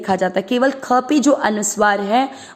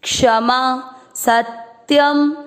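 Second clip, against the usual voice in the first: recitation; 2 semitones higher, much slower than usual. Shown as a demonstration. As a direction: chant the second line for students. (धीमा श्लोक पाठ)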